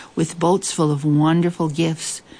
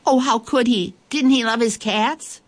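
higher, pained plea, a little hammed-up; mock tearful dismay; 6 semitones higher than usual. Narrator mimicking a listener about to cry, mock tearful. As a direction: play the listener about to cry over the cats. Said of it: "before you cry".

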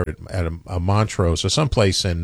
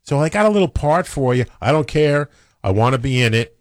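a touch higher, pleading to get the part; lightly voiced actor begging for a role; eager actor; 5 semitones higher than usual. Retelling Gene Hackman begging to be in the movie, lightly voiced.

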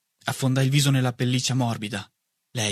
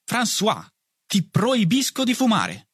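a higher mother's voice, slow and scolding; mother protesting; 10 semitones higher, slower than usual. A narrator's reading. Mother scolding her son for smoking, slow protest. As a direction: forbid it, slowly and firmly. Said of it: "protestò lei".

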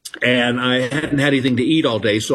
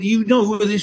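higher, disbelieving gush; older lady scolds the girl, higher and incredulous; incredulous fan; 8 semitones higher than usual. Retold or imitated. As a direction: pitch up in starstruck disbelief. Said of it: "She said".

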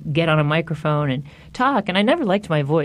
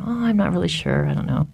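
playing dumb. Kid dodging questions about an undercover dad, playing dumb. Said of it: "to play stupid".

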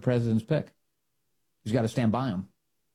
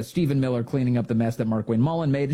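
usual speaking voice

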